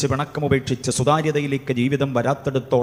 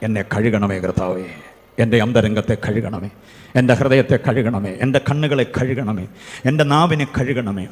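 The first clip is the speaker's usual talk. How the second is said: earnest plea; 5 semitones lower than usual. Shown as a demonstration. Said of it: "കരയേണ്ട ഒരു കാര്യം".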